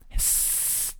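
long whispered hiss; drawn-out s like a snake. Shown as a demonstration. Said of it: "do people really hiss in real life?".

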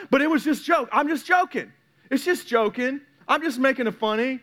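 imitating his younger self's excuses; mock defensive excuse. Mimics own excuses for hurtful jokes.

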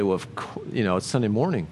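quiet, offhand imitation; mock churchgoer answer. Congregation member brushing off the question, quiet and offhand. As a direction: toss it off like the obvious Sunday answer. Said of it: "we say".

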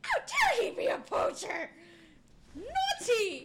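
giant alien booming voice. Acted. Druid outraged at elf poacher.

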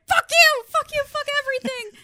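high furious screamed curses; screaming in labor. Retold or imitated. Retelling Becca yelling at her husband, screaming curses. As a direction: scream it at him in labor pain. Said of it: "she's like".

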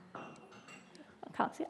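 soft whispered aside, slow. Real, not acted. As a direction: whisper it to yourself, unhurried. Aside while looking for assistant.

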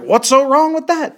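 high-pitched comedian impression; Dave Chappelle. Podcaster answering as the comedian in his Africa story, amateur impression. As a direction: push it up high like a stand-up acting indignant. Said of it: "is that a good Dave Chappelle".

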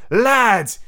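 loud, high captain's call; rallying cry. A narrator's reading. Hook calling to his crew, rallying cry. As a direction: call the men to attention. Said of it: "he cried to his crew".

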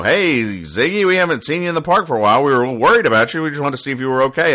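chatty concerned birds. Acted. Birds' worried greeting to Ziggy acted out.

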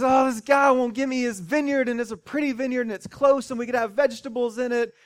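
a hint of a pouting child; whiny king.

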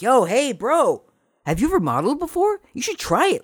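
high, pushy mock recruiter voice; imitating eager photographer. Photographer scouting Stefan to model, eager mock voice. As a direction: pitch it way up and sell it.

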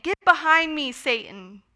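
stern emphatic rebuke, not a full shout; forceful rebuke. Retold or imitated. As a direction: hit the rebuke hard, like Jesus scolding. Repeated rebuke, now emphasized.

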